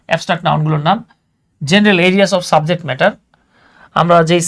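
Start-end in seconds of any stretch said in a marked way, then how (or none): 1.6-3.1 slow reading. Shown as a demonstration. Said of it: "names of sports".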